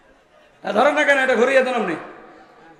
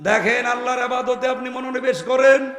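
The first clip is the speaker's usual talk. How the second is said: rousing sermon, words flung out to the crowd; preaching. Acted. Preacher rousing the congregation about God's promise, fervent preaching. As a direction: preach it with full fervour. Sermon resumes after mic fix.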